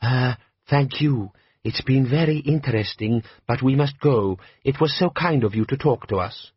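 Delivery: a hint of a dry polite nobleman; politely excusing himself, lightly voiced; lightly voiced patrician. Vetinari voiced in audiobook.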